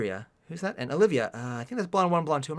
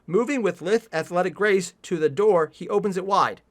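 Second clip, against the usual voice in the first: raised, deliberate quotation; pointed re-reading. Shown as a demonstration. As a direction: read the faulty sentence out emphatically. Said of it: "The next sentence is".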